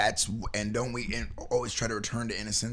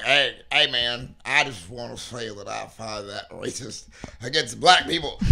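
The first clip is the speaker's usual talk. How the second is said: lightly put-on country accent; country-accent voice, slowing in the middle; slower than usual. Shown as a demonstration. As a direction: demonstrate a joking country accent. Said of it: "I said it in a country accent".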